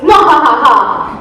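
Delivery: evil movie-villain gloating; hammy horror-film narrator with cackle; mad scientist. Acted. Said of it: "Easy, Doctor Frankenstein".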